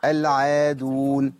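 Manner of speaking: العادون with the long vowel held just two counts, slowly; العادون said slowly with a short natural lengthening; natural madd. Shown as a demonstration. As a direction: draw out العادون evenly, no extra stretch. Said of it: "أما عندي ده مد طبيعي".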